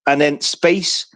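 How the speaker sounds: slow, letter-by-letter spelling. Shown as a demonstration. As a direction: spell it out slowly, one letter at a time. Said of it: "the spelling is".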